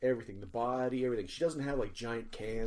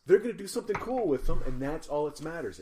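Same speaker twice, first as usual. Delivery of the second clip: imitating Janet; 4 semitones higher, 6 dB louder than usual. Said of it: "She goes".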